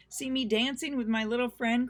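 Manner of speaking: high, loud gleeful cry; cried out. A narrator's reading. Pippi calling to friends while riding bull. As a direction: call it out proudly. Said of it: "cried Pippi".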